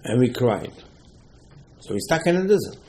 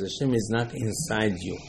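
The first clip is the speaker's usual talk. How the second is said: soft emphatic quote; 3 semitones lower, 9 dB quieter than usual. Retold or imitated. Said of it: "Moshe emphasized".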